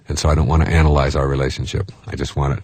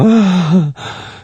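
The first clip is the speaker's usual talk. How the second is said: lovestruck sigh; 14 semitones higher than usual. Retold or imitated. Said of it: "You just go".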